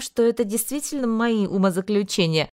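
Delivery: ordinary delivery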